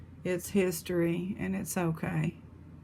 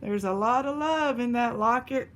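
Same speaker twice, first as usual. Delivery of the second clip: getting emotional; 3 semitones higher than usual. Real, not acted. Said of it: "I'm getting emotional".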